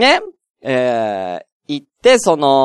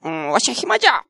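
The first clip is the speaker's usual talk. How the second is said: lordly shogun voice; 10 semitones higher than usual. Retold or imitated. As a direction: play a lazy feudal lord summoning a retainer. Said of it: "徳川何代将軍とかの将軍が".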